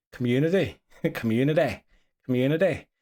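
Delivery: "Community" in a Northern Irish lilt; playfully exaggerated Northern Irish "Community"; Northern Irish accent. Shown as a demonstration. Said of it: "they love saying community".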